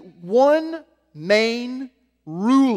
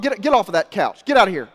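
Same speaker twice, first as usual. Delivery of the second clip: ordering a dog; 5 dB louder than usual. Retold or imitated. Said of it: "you see the dog".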